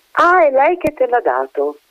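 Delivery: put-on high, disbelieving echo of the child's words; mocking echo. A narrator's reading. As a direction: throw the words back at her with open doubt. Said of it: "the lady echoes the child's words".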